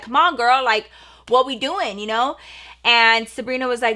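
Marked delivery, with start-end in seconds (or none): 0.0-2.4 mildly exasperated imitation of a mom; a touch of impatient urging; frustrated mom. Mom to Sabrina who keeps her waiting, mildly frustrated. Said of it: "my mom's getting frustrated".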